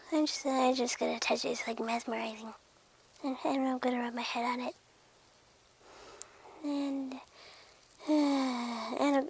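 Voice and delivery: very soft, entranced murmur; mesmerized. Acted. Cat rubbing its head on glass, mesmerized hush. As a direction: barely voice it, lost in fascination.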